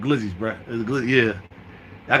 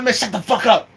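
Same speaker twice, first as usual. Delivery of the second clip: acted higher-pitched telling-off; irritated retort; 6 semitones higher than usual. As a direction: cut him off, mildly exasperated. Snapping back at neighbour.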